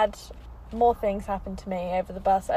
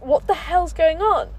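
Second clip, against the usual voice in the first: baffled; 7 semitones higher, 6 dB louder than usual. Retold or imitated. Bus doesn't stop at her stop.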